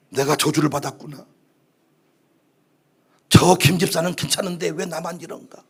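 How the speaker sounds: low, softened brooding voice; acted self-pity. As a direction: voice a dejected inner thought. Acting out self-pitying thoughts. (낮게 읊조리는 자기 연민)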